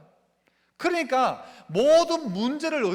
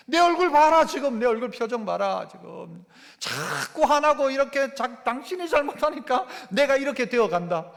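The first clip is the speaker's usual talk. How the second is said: 1 resentful blaming spouse; 2 semitones higher than usual. Acted. Preacher voices a resentful spouse.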